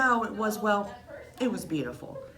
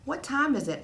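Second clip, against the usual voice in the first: dad asking; 9 semitones higher, 4 dB louder than usual. Acted. Dad practices English.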